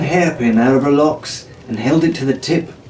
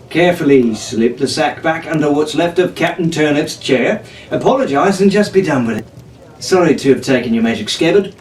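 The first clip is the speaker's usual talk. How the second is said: put-on sarcastic young rogue, breezy; cheeky pirate voice; 4 semitones higher than usual. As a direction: brush it off with mock politeness. Jack's sarcastic plan.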